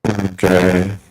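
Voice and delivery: glitchy robotic distortion. Real, not acted. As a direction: voice chopped up by a bad connection. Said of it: "You are still roboting really bad".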